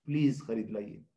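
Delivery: soft, courteous request; wife politely asking husband to buy something; polite, not angry. Shown as a demonstration. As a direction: ask gently instead of scolding. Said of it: "بجائے غصے سے بولنے کے".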